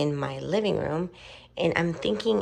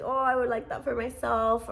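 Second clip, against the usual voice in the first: wistful longing; 8 semitones higher, 4 dB louder than usual. Retold or imitated. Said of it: "I got all emotional".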